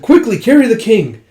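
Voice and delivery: loud, high alarmed command; retold panicked order; acted urgent order. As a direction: shout for help moving the wounded. Urgent order over wounded king.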